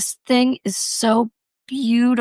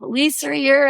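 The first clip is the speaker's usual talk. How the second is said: lifted pitch, mock excited chatter; retold excitement, pitched a little high; excited retelling; 4 semitones higher than usual. Teller quoting herself thrilled to see police, excited.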